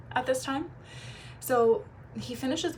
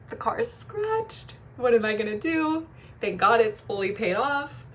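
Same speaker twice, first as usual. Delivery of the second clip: mock panic; 2 semitones higher than usual. Panicking about the scratched car.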